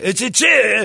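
high, loud imitation Asian accent; mock Asian accent. Golfer insisting on his name, mock Asian accent. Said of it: "Cha was pretty sweet".

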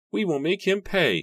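put-on loud, high angry old man; angry shout. A narrator's reading. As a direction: shout the threat. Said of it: "he shouted angrily".

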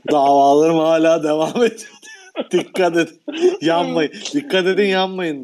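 quoting through laughter; chuckling retelling; after laughing hard. Retold or imitated. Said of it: "diyormuş herif".

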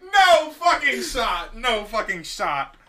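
slow, drawn-out disbelief; can't believe it, slowly; stunned disbelief. Real, not acted. Rival picks same driver.

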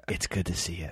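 quiet, low character voice; lightly hushed greeting in character; a hint of Sean Penn in character. Greeting the grip quietly, in character. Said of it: "And, like, in character".

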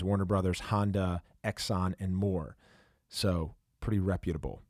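polished podcast sponsor read, key words punched. Acted. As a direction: read the sponsor copy to listeners, emphatic at the start. Host reads sponsor ad.

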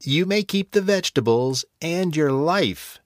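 put-on high, croaky old witch voice; croaking witch. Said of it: "she croaked".

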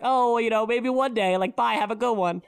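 friendly officer voice. Retold or imitated. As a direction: wave her through, breezy and bright. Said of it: "And he was like".

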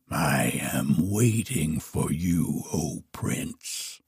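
low, hushed dragon; a dragon lying in wait, voice dropped deep. A narrator's reading. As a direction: answer low and quiet, sinking away at the end. Dragon answers the prince's challenge.

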